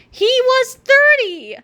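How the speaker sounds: slow, high, dramatic gasp; mock horror. A narrator's reading. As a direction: play it as shocking news. Mock shock at age.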